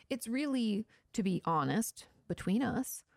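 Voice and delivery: ordinary delivery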